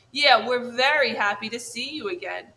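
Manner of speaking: little brother bear copying his sister; copycat echo. Acted. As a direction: parrot her line to back her up. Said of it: "echoed the brother bear".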